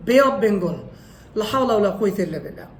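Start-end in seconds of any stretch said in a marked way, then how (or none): 0.1-0.8 "বে of Bengal" with short unglided "বে"; Bangladeshi mispronunciation. Shown as a demonstration. Teacher showing how locals say it, mispronounced. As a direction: say "বে" with a pure Bangla e. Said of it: "বাংলাদেশে আমরা বলি".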